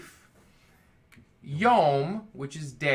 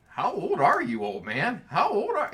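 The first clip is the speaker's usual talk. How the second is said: loud, higher-pitched blunt demand; mock rough questioning; 7 semitones higher, 5 dB louder than usual. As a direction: playfully blurt it out, straight to the point. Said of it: "answereth roughly".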